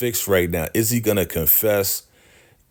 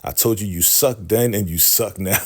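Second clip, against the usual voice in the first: imitating a cheeky, unimpressed put-down; cocky attitude; 3 semitones higher than usual. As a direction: brush them off with mock scorn. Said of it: "Andrew's attitude is just crazy funny".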